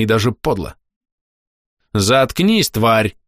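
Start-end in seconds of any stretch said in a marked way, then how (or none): 1.9-3.2 sharp angry retort. Acted. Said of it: "резко ответил маг".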